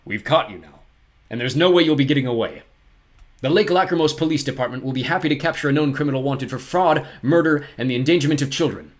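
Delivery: firm announcement of arrest; stern official. Acted. Poe tells Olaf he is caught, stern.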